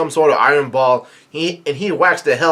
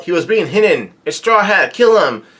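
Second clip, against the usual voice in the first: mock yell, pitched up; retold yell; 4 semitones higher than usual. Retelling a crowd member spotting Straw Hat, mock yell. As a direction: imitate someone calling out the alarm. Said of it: "somebody yells out".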